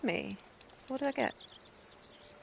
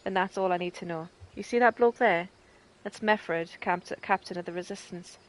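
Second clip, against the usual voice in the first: a hint of a prickly village woman; lightly acted NPC, not far from own voice; lightly voiced Albreda. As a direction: read her lines with a bit of bite. Reads Albreda's quest lines.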